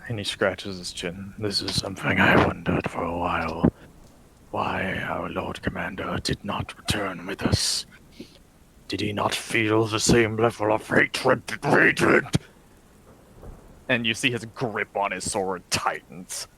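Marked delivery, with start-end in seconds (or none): 1.4-12.2 brooding vampire lord. Acted. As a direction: speak as a weary, cursed lord in a hushed voice. Vladimir answers in character.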